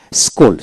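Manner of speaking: "স্কুল" with a plain sk start; silent letter. Shown as a demonstration. Teacher showing learners a silent letter in "স্কুল". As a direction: say "স্কুল" with one k sound after s. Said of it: "সি উচ্চারণ হবে না".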